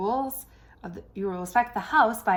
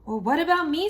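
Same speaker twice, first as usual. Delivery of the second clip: high, louder indignant cry; pushy stove monster; 8 semitones higher, 6 dB louder, faster than usual. Acted. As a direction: demand it like a greedy monster. Stove demanding its turn.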